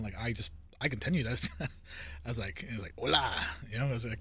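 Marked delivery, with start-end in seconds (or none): 3.0-3.3 a hint of a Mexican accent, louder; lightly put-on Mexican greeting. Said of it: "that Mexican one".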